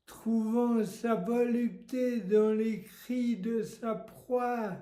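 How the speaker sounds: measured, understated poetry reading; poem recitation. Acted. Host reading Lamartine extracts for a title quiz, poem recitation. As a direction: recite the verse with spaces between phrases.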